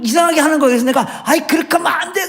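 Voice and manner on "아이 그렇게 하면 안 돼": mock angry snap at wife. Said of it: "이렇게 막 화를 냈어요".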